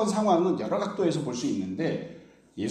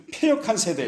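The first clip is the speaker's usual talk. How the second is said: raised, higher stern cry of 패역한 세대; stern rebuke; 6 semitones higher, 3 dB louder than usual. Retold or imitated. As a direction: proclaim it like a grave judgment. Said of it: "막 심각하게 말씀하시거든요". (높고 크게 엄하게 꾸짖듯이)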